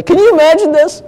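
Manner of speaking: high, loud incredulous quote; preacher quoting another preacher in disbelief; quoting John MacArthur. Retold or imitated. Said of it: "I heard John MacArthur on this".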